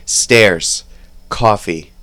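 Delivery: Jersey vowels on Stairs, Coffee and Car keys; New Jersey accent. Shown as a demonstration. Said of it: "Ready? Listen".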